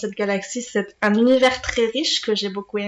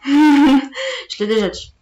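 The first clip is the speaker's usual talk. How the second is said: laughing aside; 4 semitones higher, 4 dB louder, slower than usual. Real, not acted. Laughing at repeating herself.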